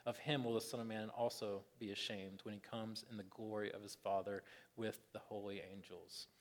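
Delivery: quiet, measured Bible reading; scripture reading. Real, not acted. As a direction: read the passage out solemnly, letting the endings drop.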